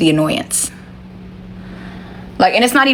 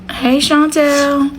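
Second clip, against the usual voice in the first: calling out; 8 semitones higher, much slower than usual. Real, not acted. Calling someone across the room.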